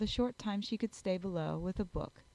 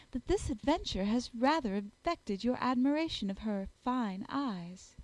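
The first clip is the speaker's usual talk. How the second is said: ordinary delivery, nothing marked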